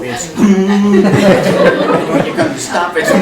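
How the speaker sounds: slow, laughing, drawn-out words; laughing through words. Real, not acted. Describing Ida's sudden braking, slow and laughing. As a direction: barely get it out for laughing.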